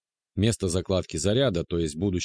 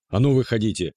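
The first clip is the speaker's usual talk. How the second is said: louder, stressed ну, commanding; demanding shout; 3 semitones higher, 5 dB louder than usual. A narrator's reading. Man shouting at hidden intruders, commanding. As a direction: bark the order to come out. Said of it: "требовательный мужской голос".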